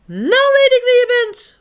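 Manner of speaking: high, loud eureka cry; exclaiming. A narrator's reading. Egbert guesses the girafant, high excited cry. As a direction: burst out with the answer. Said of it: "roept Egbert uit".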